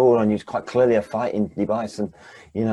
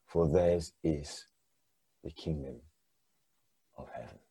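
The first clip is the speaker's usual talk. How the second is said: solemn scripture recitation; 2 semitones lower than usual. Acted. Jesus teaching the crowd on the hillside, solemn and reverent. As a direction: intone each blessing with reverence, letting the last line fade.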